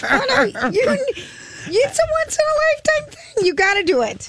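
mock persuading. Mock urging in high voice.

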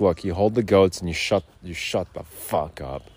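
menacing boss impression; gruff boss. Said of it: "he's just like".

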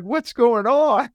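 high, drawn-out baffled question; comic confusion, acted out; retold bewilderment. Baffled by crying stranger, retold.

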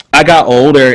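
ordinary talk, nothing marked

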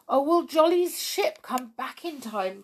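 high, worried plea; fretting that he'll be too late; anxious cry. Acted. Tiptoe fears Jolly's ship will be late, anxious cry. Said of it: "cried Tiptoe".

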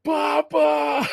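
high, loud mock cry of Papa; a villain's comic high-pitched shout for his father; imitated yelling. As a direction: yell it like the desperate villain, hammed up. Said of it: "He keeps yelling".

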